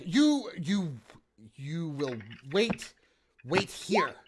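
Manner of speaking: high, insistent flustered order; a panicking mayor insisting they stay put; flustered command. Acted. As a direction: order them to stay, nervously. Mayor orders them to wait.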